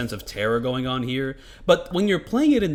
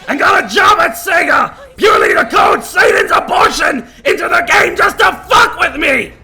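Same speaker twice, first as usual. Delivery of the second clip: loud slow raging shouts; furious yelling; 12 semitones higher, 14 dB louder, slower than usual. Real, not acted. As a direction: scream out the frustration. Ranting after ruined no-death run.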